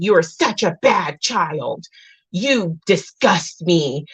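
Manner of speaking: slow, weighted mock scolding; scornful parent. Example of harsh parenting, slow retold scorn. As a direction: lay mild contempt on each drawn-out word.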